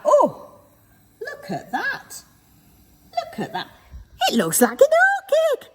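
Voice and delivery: high, laughing delight. Real, not acted. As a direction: laugh through the words with delight. Laughing at finished oatcake.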